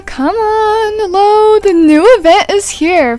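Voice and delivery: high, loud, eager cheering; excited urging. Real, not acted. Player waiting for the new event to load, excited. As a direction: urge it on, bursting with excitement. Event finally opens while loading.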